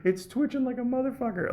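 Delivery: high-pitched laughing through words; giggling as he tells it. Real, not acted. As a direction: laugh while describing the twitch. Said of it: "at one point I almost laughed".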